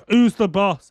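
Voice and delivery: gruff demand. Retold or imitated. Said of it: "comes in and goes".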